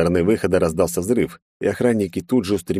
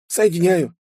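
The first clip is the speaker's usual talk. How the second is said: very high, bright assistant voice reporting; an eager suit AI arriving; robot helper; 12 semitones higher than usual. Acted. Carol reports arrival to her master, very high and eager.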